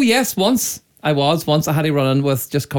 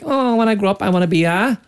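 a hint of an eager kid, higher pitched; lightly voiced child; 5 semitones higher than usual. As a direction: lightly play a dreaming youngster. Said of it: "you were like".

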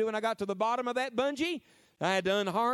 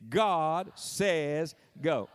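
drawn-out preacher's proclamation; very slow preacher delivery, each word stretched; 2 semitones lower, much slower than usual. Shown as a demonstration. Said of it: "say it like a preacher".

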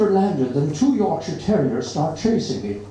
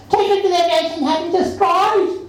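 much higher, louder spoilt shriek; shrieking demand; 14 semitones higher, 4 dB louder than usual. A narrator's reading. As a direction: demand it hysterically. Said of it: "shrieks horrible Doris".

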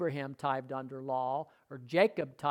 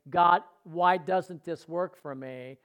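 slow emphatic quote; slower than usual. Shown as a demonstration. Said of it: "I didn't say".

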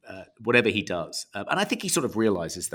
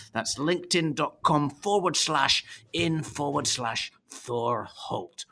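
mock Scottish accent; doing a Scottish businessman's accent; 3 semitones higher than usual. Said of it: "Thor's Scottish accent".

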